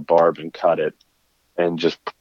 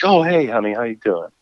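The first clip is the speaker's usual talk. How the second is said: mock casual innocence; 2 semitones higher, 4 dB quieter than usual. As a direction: act like nothing's wrong. Stuck, playing innocent to fiancee.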